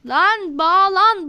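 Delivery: frustrated drawn-out plea. Real, not acted.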